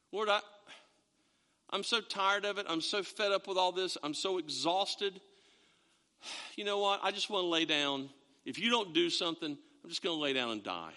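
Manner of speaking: weary complaint. Pretend. David's weary complaint voiced.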